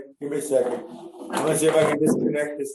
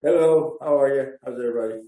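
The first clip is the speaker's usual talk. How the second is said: distant, echoey room sound; like talking in a big hall; 3 semitones lower, faster than usual. Real, not acted. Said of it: "You, you sound a little echoey".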